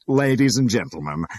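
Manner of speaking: loud, high, beaming announcement; triumphant auctioneer. A narrator's reading. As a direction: crow over the winning bid. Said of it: "he said triumphantly".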